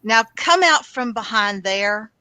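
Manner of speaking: lightly voiced stern mom; a hint of a mother ordering a child out. Player coaxing whoever hides behind the tree, mild mom voice. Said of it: "there's the mom voice".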